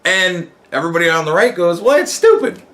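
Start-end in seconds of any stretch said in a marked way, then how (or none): 1.8-2.6 higher, offhand scoff; mock dismissive. The right answering the left, mock dismissive. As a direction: brush it off as nonsense.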